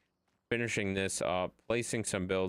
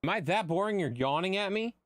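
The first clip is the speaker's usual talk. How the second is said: high playful voice to a dog; high pet-talk voice; 9 semitones higher than usual. Real, not acted. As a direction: tease the yawning puppy. Talking to the yawning dog.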